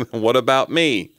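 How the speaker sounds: slow, badly faked voice assistant; Siri. Neglected phone assistant pleading with its owner, terrible Siri impression. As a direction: plead slowly as a hammed-up digital assistant. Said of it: "That's a terrible Siri impression".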